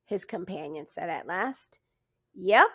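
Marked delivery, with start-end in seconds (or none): 2.3-2.7 eager, relieved and loud; relieved to finally talk. Acted. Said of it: "with evident relief".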